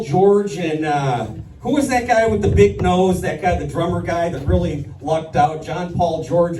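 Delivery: usual speaking voice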